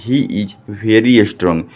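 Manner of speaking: slow, word-by-word read-out; slow model reading. Shown as a demonstration. Teacher shows pupils how to read the sentence, slow model reading. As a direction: read it slowly for learners to repeat. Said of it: "तो कैसे पढ़िएगा?".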